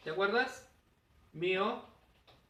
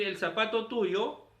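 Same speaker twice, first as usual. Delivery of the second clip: slow example; 3 semitones higher, slower than usual. Shown as a demonstration. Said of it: "En lugar de decir".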